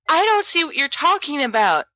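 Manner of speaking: high, loud yell of protest. A narrator's reading. Peter yells at his friends, high and loud. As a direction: Peter shouts at James and Sirius, frightened and loud. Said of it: "Peter yells".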